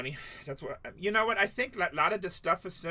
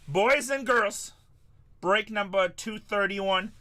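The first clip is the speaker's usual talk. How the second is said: put-on higher, louder and slow, "boys" stretched long; drawn-out announcer call; 4 semitones higher, 5 dB louder, slower than usual. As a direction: roll it out like a ring announcer.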